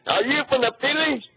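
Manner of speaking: put-on joking Jamaican accent aimed at a Yankee fan; mock Jamaican accent. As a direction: tease a Philly caller in a fake Jamaican lilt. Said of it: "using a Jamaican accent to make fun".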